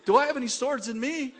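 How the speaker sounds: high, loud laughing question; laughing mock question. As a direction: ask it giggling. Politicians asking, laughing.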